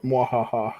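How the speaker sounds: soft imitating villain laugh; quiet evil laugh. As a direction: echo the hushed cackle. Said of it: "you went".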